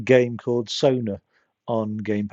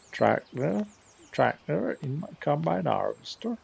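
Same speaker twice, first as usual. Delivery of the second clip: mock Bristol accent; 3 semitones higher, 4 dB quieter than usual. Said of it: "I can't do it".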